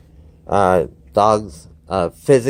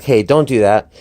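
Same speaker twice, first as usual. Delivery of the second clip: firm warning; 5 dB louder than usual. Shown as a demonstration. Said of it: "sometimes it's meaningful".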